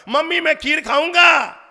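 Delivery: high, loud wailing demand; child yelling for kheer. Retold or imitated. Child yelling at his mother for kheer. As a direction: shout it like a stubborn child at the door. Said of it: "जोर जोर से चिल्लाने लगा".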